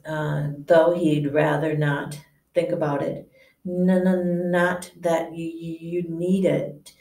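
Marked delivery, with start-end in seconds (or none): 3.7-6.9 nervous stammer. Acted. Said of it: "he whispered nervously".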